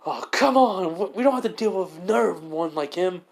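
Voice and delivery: high, loud panicked voice; freaking out at the ninja; panicked thug. Acted. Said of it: "The guy's like".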